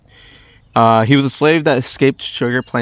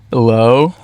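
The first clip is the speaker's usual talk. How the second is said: customer service voice. Real, not acted. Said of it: "I'm using my customer service voice".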